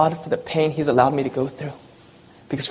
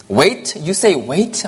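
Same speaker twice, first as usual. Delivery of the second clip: indignant; 2 semitones higher, much slower than usual. Acted. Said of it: "my indignant reply".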